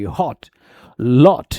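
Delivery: हॉट, लॉट with a short rounded o; British rounded O. Shown as a demonstration. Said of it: "ओ sound होता है short और rounded". (हॉट, लॉट में छोटा गोल ओ)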